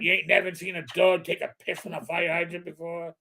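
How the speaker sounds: lightly voiced tough cop dog; McGruff impression. Crime dog telling the kid to move along, light McGruff voice. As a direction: wave the kid along, mildly gruff. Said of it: "sound like McGruff the crime dog".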